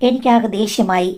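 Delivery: plain reading voice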